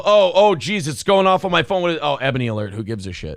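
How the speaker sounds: lightly voiced dismissive man, dropping away; dismissive white guy. Host imitating a man ignoring an alert, mock indifference. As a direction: start startled, fade into indifference. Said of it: "if you're a racist white guy and you go".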